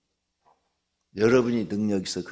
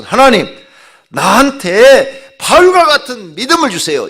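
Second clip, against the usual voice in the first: fervent prayer; 12 semitones higher, 15 dB louder than usual. Shown as a demonstration. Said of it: "이렇게 기도해요".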